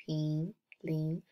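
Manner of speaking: "ping, ling" each rising; second tone. Shown as a demonstration. Reading second-tone examples to students, rising "ping, ling". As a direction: lift the pitch through "ping" and "ling". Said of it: "Second tone".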